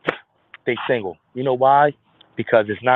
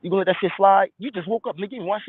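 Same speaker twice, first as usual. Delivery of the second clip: lightly voiced tempting demon; 6 semitones higher, faster than usual. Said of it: "So you wake up".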